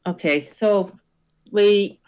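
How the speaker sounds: put-on Welsh accent. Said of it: "I've gone a bit Welsh there".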